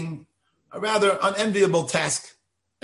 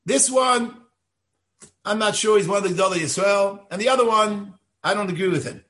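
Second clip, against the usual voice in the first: put-on dismissive young man; 4 semitones higher than usual. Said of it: "he indicated to me".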